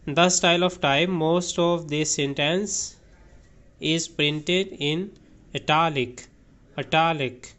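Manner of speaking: slow, careful read-aloud of a definition; teacher reading a definition aloud, very slowly; slow dictionary reading. Acted. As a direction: read each word slowly for the class. Reads example sentence slowly.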